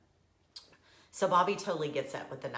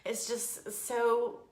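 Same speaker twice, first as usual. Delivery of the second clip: teary, high voice, laughing at herself; choked up and embarrassed by it; crying; 5 semitones higher than usual. Real, not acted. Telling viewers about the almond, crying and embarrassed. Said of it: "Isn't it stupid that I'm crying".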